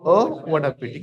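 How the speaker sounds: slow teaching read. Shown as a demonstration. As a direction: stretch it out for the class. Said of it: "क्या बोलेंगे?".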